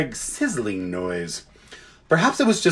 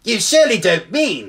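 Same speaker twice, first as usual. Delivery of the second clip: high, chattering bird voice; squawky jackdaw; 7 semitones higher, 3 dB louder than usual. A narrator's reading. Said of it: "said the jackdaw to the badger".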